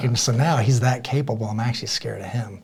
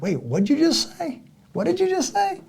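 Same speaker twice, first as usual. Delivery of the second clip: incredulous retort. Retold or imitated.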